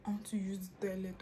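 soft urgent whisper to her sister; whispered plea. Retold or imitated. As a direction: whisper it so dad won't hear.

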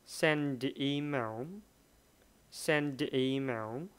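slow, join send and the smoothly; teacher modelling the linked d in Send the email; linked d sound. Shown as a demonstration. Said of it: "đọc nối giữa send và đ".

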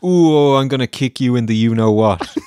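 a hint of a prissy, laughing threat; mock threat while laughing. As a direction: ham up a limp tough-guy threat. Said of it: "when you're very angry, you don't say".

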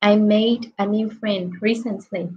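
"made" said slowly and clearly; model pronunciation. Shown as a demonstration. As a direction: read "I made a new friend recently" slowly, like a teacher. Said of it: "mình sẽ là made".

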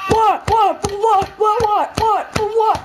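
squealed, outraged "What?" over and over; high cartoon outrage, word after word; shrill repeated what. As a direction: yelp each "What?" in a high falling squeak.

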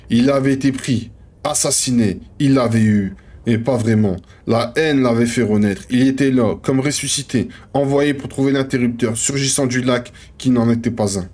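measured manuscript reading; understated literary narrator; story narration. Acted. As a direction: read it out like a novel, pausing between names. Reads manuscript page aloud.

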